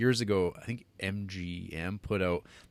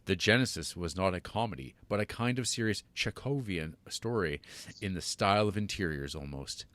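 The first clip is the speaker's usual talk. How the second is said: a hint of a waspy upper-class reader; lightly put-on snooty read; 2 semitones lower, 4 dB quieter than usual. Podcast cohost reads Woody Allen's quote, in a mildly waspy voice. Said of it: "read it in my most waspy of voices".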